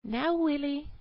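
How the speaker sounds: put-on high, scolding mother's call to her child; cave mother calling. A narrator's reading. A cave mother calls her little son, sharply. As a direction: call the boy in like a cross mum. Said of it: "she was saying".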